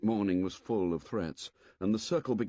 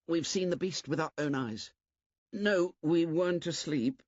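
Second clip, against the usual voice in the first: put-on high, urgent boy's voice; a scared boy insisting; frightened twin boy; 9 semitones higher than usual. Twin tells the boys he saw the beast, scared.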